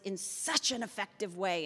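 mock-impressed sarcasm. Real, not acted. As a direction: lay the irony on "such". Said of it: "that's sarcasm in my voice".

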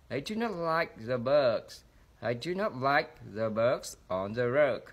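slow reading, "bug" and "rug" held long; fully lengthened vowels. Shown as a demonstration. Teacher shows students full vowel length, "bug" and "rug" stretched slowly. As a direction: draw out the vowel in every "bug", "rug" and "bugs". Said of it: "lúc nào tôi cũng kéo dài đầy đủ".

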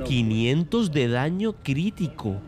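slow, drawn-out disbelief at "Quinientos"; amazed repeat. Real, not acted. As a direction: savour the number in awe. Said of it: "la Satori hace quinientos".

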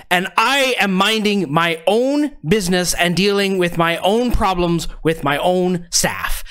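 a lightly voiced self-important harbor master; a hint of a blustering harbormaster; pompous official.

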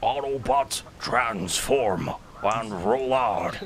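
slow, commanding robot leader rallying the troops; lightly done heroic battle call; Optimus Prime voice. Acted. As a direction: draw the rallying cry out like a noble commander. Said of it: "my Optimus Prime voice".

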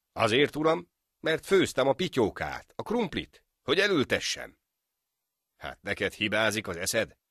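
loud, high, cheeky reasoning; sly defence. A narrator's reading. Friend cleverly argues his case to the judge, loud and cheeky. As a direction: outwit the judge with a grin.

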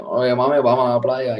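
lightly put-on Puerto Rican Spanish; Puerto Rican accent. Retelling his flirting in Puerto Rico, light Puerto Rican accent. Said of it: "I would try to get with the accent".

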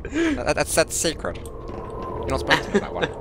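a menacing villain sped up on helium; Bane on helium. Acted. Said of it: "Why do you sound like Bane on Helium?".

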